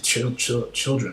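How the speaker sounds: tripping over the first syllable; stuttering. Real, not acted. Stuttering over a word while talking to viewers about him. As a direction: stumble on the word, restarting it. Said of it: "I'm stuttering".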